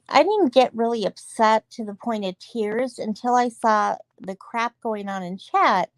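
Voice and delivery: ordinary delivery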